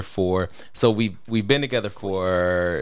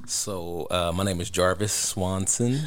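sexy voice; 2 semitones lower, 3 dB quieter, slower than usual. Acted. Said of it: "I'm sorry, what voice is that?".

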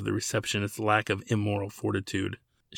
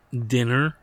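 incredulous; 3 dB louder than usual. Acted. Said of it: "she asked incredulously".

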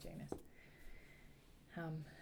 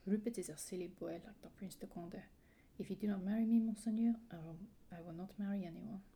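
put-on insistent French-accented heroine, rising louder midway; 2 semitones higher, 4 dB louder than usual. Heroine refuses any other husband, French accent. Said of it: "I really enjoyed your French accent".

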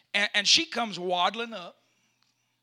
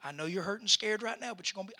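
soothing the chicken; 6 dB quieter, faster than usual. Retold or imitated. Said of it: "I know I look like an idiot, but this is what I did".

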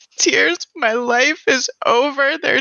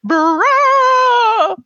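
loud shocked bruh; loud exclamation; 13 semitones higher, 5 dB louder than usual. Real, not acted. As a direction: blurt it out loud. Player reacts in shock.

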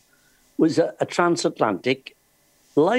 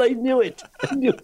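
higher, delighted told-you-so repeated twice; gleeful triumph; 9 semitones higher than usual. Retold or imitated. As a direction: crow it like a man proved right. Friend's triumphant recognition retold.

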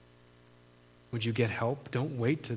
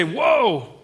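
high, loud, stretched exclamation; mock-shocked listener; shocked disbelief; 8 semitones higher, 6 dB louder than usual. Listener hearing a counselor is in treatment, shocked disbelief.

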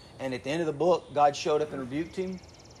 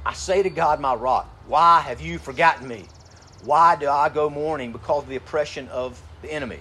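loud, earnest psalm read with lament; scripture reading; 3 dB louder than usual. Acted. Preacher reads a lament psalm to the congregation, earnest. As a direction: plead the verses, then settle.

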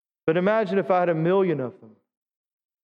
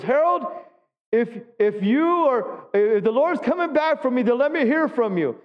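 higher, earnest call to her late husband; a hint of an old woman calling out to heaven; lightly voiced widow pleading with her husband; widow's plea; 5 semitones higher than usual. Widow praying to dead husband.

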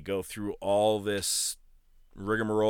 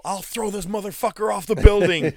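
much higher, louder mock roar; Giant's threat; 10 semitones higher, 6 dB louder than usual. The Giant threatening to throw Hogan, mock roar. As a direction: bellow the threat like a furious giant. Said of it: "it was like that whole".

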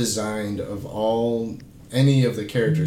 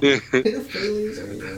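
Meeseeks imitation; 6 semitones higher than usual. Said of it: "He's like".

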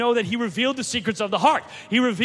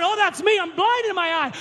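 imitating the woman; 9 semitones higher than usual. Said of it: "he said".

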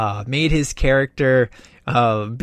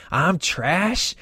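higher-pitched, rising disbelief; retold offended comeback, pitched up; mock indignation; 4 semitones higher than usual. Film fan quoting Rex's reaction to being called trash, mock indignant.

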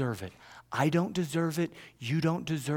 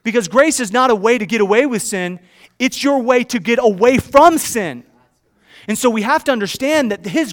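raised, forceful preaching voice; loud, higher-pitched pulpit delivery; emphatic preaching; 8 semitones higher, 13 dB louder than usual. Real, not acted. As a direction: drive each phrase home to the congregation.

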